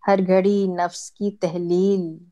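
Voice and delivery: mushaira-style poetry reading; ghazal recitation. Acted. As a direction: recite each half-line deliberately, pausing before the refrain.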